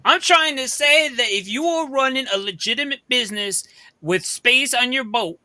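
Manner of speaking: acted, mildly exasperated insistence; insistent arguing. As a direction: press the captain as if it were obvious. Character argues with the captain.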